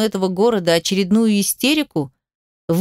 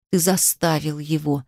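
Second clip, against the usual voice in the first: quieter, lower, hoarse accusation; hoarse rasp; 5 semitones lower, 4 dB quieter than usual. A narrator's reading. She accuses him of forcing her fiancé, hoarse. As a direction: rasp it out, barely holding on. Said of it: "прохрипела она".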